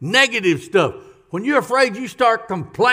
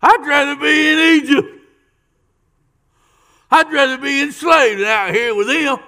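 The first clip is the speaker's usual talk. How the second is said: higher, louder mock complaint; whining Israelites; 5 semitones higher, 3 dB louder than usual. Israelites griping at Moses, mock whining. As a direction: whine about going back.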